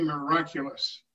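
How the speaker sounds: miraculous leaned on a little; mild emphasis on miraculous; stress on miraculous. Real, not acted. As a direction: give miraculous slight weight. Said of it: "I emphasize the word miraculous".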